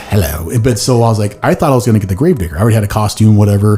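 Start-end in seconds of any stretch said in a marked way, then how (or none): 0.0-0.5 a hint of bad British; mock British hello; horrible British accent. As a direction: greet in a lightly faked British accent. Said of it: "I did a horrible British accent".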